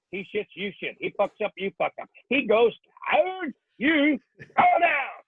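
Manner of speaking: Marine drill sergeant tearing into recruits; drill instructor rant. Acted. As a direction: bark it at the platoon with rhythm. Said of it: "this is the dialogue".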